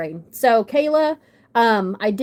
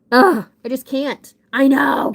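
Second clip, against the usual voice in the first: louder, higher gushing ugh; overwhelmed gush; 4 semitones higher, 6 dB louder than usual. Real, not acted. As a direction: burst out, overwhelmed by how pretty. Overwhelmed gushing over horse.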